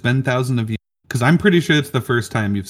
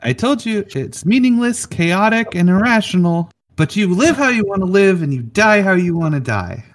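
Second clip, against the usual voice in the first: lightly raised magic orb voice; fairy voice; 8 semitones higher than usual. Acted. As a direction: speak as the mystical orb.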